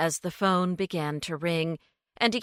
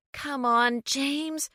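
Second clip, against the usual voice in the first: pleading; 8 semitones higher, slower than usual. A narrator's reading. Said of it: "Lucy pleaded".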